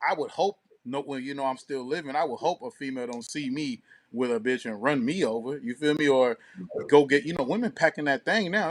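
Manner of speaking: usual speaking voice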